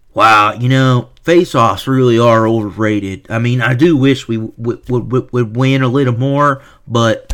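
lightly drawled Southern mockery; a hint of a Southern twang, mocking; mock Southern accent. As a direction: mimic him in a faint Southern accent. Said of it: "making this fucktard, uh, Southern".

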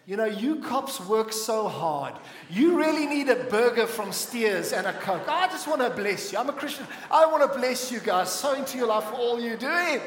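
laughing through a mock bribe. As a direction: chuckle through the sweet talk. Mock bribing the cop, laughing.

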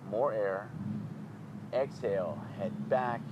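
measured yoga breathing voice; guided breathing. Shown as a demonstration. Leads a breathing exercise.

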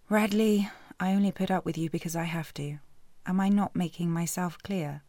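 exasperated rebuke. Acted. Heroine snapping at McCoy.

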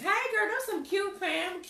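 high, slow, sugary fake praise; mock sweet insincere compliment. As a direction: sweeten it like a phony friend. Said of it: "Talking about child".

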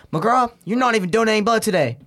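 Marine calling him out. Retold or imitated. Marine calls out his lie.

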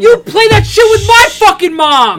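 high indignant yell; frat bro. Real, not acted. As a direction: yell it, outraged and playful. Friend yells accusation.

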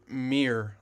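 "mirror" said as one syllable, "meer"; meerkat-style mirror. Shown as a demonstration. Co-host explaining American speech, "mirror" said as "meer". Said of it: "like a meerkat".

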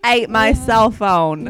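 attempted Australian accent. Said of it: "you have to start with".

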